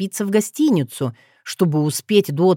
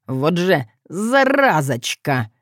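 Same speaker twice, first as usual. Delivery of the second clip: pained hiss; slower than usual. Acted. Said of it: "шипя сквозь стиснутые зубы".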